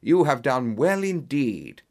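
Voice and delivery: slow, approving exclamation; measured, hearty approval; pleased cry. Acted. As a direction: praise with drawn-out emphasis. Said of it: "cried Holmes".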